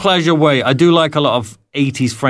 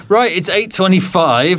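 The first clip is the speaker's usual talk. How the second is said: passive aggressive; 3 semitones higher than usual. Real, not acted. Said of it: "Very passive aggressive".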